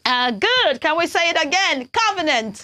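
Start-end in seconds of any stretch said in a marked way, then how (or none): 1.9-2.6 put-on "Covenant" said kuh-vuh-nunt for children to repeat; model covenant. Shown as a demonstration. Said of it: "Children, say covenant".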